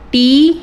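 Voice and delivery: टी drawn out as a separate beat; broken into syllables. Shown as a demonstration. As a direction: isolate टी with a long vowel. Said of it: "इसको तोड़ के देखना है". (टी को अलग, खींचकर)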